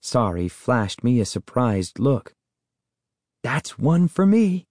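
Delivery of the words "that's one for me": high, slow, pleased with himself; gloating. A narrator's reading. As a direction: relish the small win. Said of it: "I thought happily".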